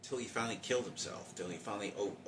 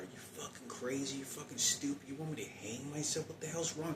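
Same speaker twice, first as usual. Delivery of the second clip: retold screaming; 7 semitones higher than usual. Son yelling back at his mother, high mock scream. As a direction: replay the teen's outburst at his mother, pitched up. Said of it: "I started screaming at her".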